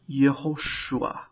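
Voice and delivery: "Yehoshua" with u gliding into a final a; sneaked-in vowel. Shown as a demonstration. Teacher takes the name as an example, sneaked-in vowel. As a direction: let a short a slip in at the end of "Yehoshua". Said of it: "a little patach that sneaks in".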